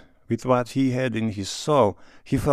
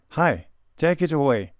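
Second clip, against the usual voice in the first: higher, louder call to the waiter; 6 semitones higher, 4 dB louder than usual. A narrator's reading. Stepan Arkadyevich calls the Tatar waiter to clear plates, calling out. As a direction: call across the room to clear the table. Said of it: "he called to the Tatar".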